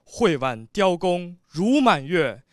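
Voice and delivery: measured, declaimed recitation with long held line endings; 诗词朗诵. Shown as a demonstration. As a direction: recite the ci formally, pausing between phrases. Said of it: "你试一下". (豪放地朗诵宋词)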